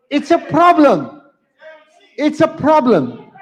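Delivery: slow down and call out to the room over the noise. Real, not acted. Calling out over noisy crowd.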